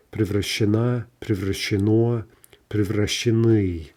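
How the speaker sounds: превращена, превращено, превращены stressed on the final vowel; shifted end stress. Shown as a demonstration. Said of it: "the shifting stress".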